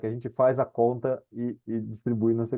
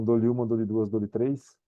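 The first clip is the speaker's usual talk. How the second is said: slow, drawn-out auction countdown; auctioneer; slower than usual. Pretend. Raffle countdown before pressing Enter.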